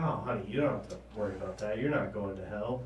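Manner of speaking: soft, low, quick reassurance; mildly soothing parent voice; reassuring parent. Retold or imitated. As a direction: gently wave the worry away. Parent reassuring bullied daughter.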